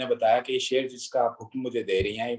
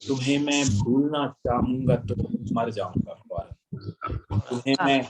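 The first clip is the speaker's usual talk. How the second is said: stately nazm recitation. Acted.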